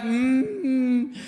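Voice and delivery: high, slow, straining mock groan. Wife in labour cursing her husband, straining. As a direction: curse him through the push. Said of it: "She was like".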